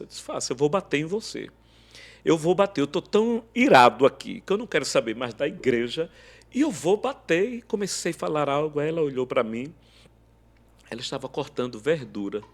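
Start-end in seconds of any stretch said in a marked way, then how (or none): 0.2-7.5 angry. Retold or imitated. Raging at wife in kitchen.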